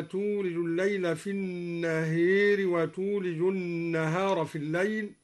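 first النهار said "an-naheer"; imala on النهار. Shown as a demonstration. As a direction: tilt the long a of النهار to ee. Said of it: "وأمال النهار من قوله تعالى".

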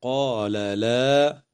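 قال لا with both lams pronounced distinctly, unmerged; slow, careful قال لا; clear lam. Shown as a demonstration. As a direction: say قال لا slowly, sounding each lam. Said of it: "وتظهر اللام عند اللام".

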